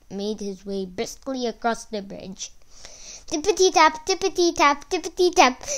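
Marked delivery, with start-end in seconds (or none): 3.3-5.6 high, louder dainty trot; higher, louder playful hoof sounds for the trotting goat; trotting hooves. A narrator's reading. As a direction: sing out the little steps up high. Goat hooves trot over bridge.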